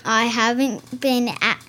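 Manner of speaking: lightly put-on accent, breaking into laughter; Accent Girl. Accent Girl explains why she's nervous, put-on accent with laughter. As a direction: play Accent Girl's accent, then crack up. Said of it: "Is that where your accent".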